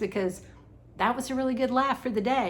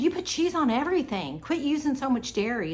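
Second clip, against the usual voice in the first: mock scolding; 5 semitones higher than usual. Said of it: "she put it in all caps".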